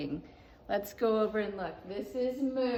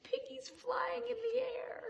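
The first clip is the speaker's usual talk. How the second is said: whisper; 12 semitones higher, 6 dB quieter than usual. Acted. Hushed reading about Piggy.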